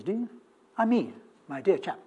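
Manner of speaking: ordinary talk, nothing marked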